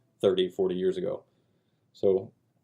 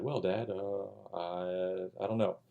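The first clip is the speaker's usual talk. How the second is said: put-on slow, soft and hesitant boy's answer; unsure little boy; 8 dB quieter, much slower than usual. Young son stumped by his detective father, slow and soft. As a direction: shrink back like a stumped kid.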